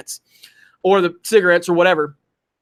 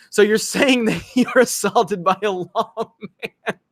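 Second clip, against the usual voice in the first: laughing while reading; slower than usual. Real, not acted. Laughs reading viewer's comment.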